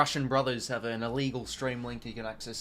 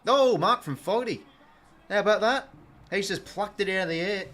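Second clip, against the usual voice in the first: sudden high, loud burst as the mark is taken; thrilled commentator calling a screamer; excited call; 8 semitones higher, 7 dB louder than usual. Acted. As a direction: leap up in pitch at the catch. Spectacular mark called live.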